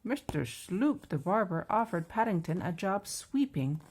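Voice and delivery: measured, lively picture-book narration; children's story reading. A narrator's reading.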